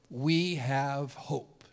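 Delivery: breathless, faint whisper of a dying man. Retold or imitated. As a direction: breathe it out slowly, almost no voice. Father's dying last words.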